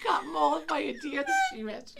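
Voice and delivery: words squeezed out, helpless laughter; crying with laughter; telling the story, laughing too hard; laughing through words. Real, not acted. Laughing so hard she can't speak.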